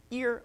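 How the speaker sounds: ear with the overtone popped out; harmonic ear. Shown as a demonstration. Teacher demonstrating the harmonic on ear. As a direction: stretch ear so the harmonic rings. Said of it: "I'll do it slower".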